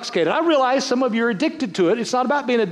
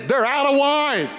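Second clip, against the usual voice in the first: Mary's announcement; 4 semitones higher, slower than usual. Retold or imitated. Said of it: "Mother Mary meets them at the gate and says".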